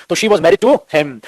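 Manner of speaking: slowly, spelling out "to him"; slow correct version. Shown as a demonstration. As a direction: drag each word of "she was married to him" as the right answer. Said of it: "क्योंकि person से पहले क्या आता है".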